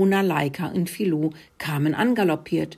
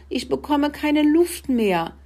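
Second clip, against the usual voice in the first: high, strained plea; running out of air; 9 semitones higher than usual. A narrator's reading. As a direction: plead as if stuck without air. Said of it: "röchelte Rudi". (hohe Stimme in Atemnot)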